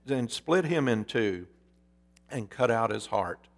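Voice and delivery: storyteller reading a parable, measured and vivid; story narration. A narrator's reading. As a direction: tell the fable as from the pulpit. Preacher reads a parable aloud.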